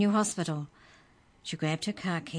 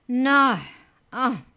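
loud high squeal of protest; squeaky yell; 9 semitones higher, 11 dB louder than usual. Acted. The dropped book elf yells, high and loud. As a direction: cry out as you fall. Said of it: "the voice yelled".

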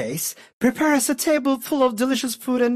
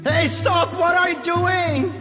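put-on higher panicked boy; alarmed cry; 8 semitones higher than usual. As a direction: cry out as the rock closes. Trapped boy cries out.

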